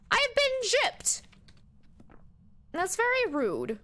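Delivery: high, slow indignant whine; squeaky slow mock complaint; mock indignation. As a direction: draw it out, playfully wronged. Complaining about evidence not counting.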